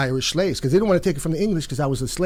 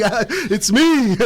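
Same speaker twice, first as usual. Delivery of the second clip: retold announcement; 7 semitones higher, 3 dB louder, much slower than usual. Answers the neighborhood, retold.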